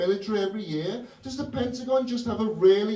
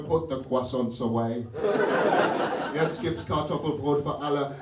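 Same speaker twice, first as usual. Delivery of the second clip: German invader; 4 semitones lower than usual. Retold or imitated.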